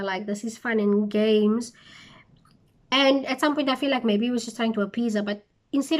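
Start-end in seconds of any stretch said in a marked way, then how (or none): 0.0-1.7 breathy throwaway whisper; whispered aside. Retold or imitated. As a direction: toss it off in a whisper. Imitating Samson brushing it off.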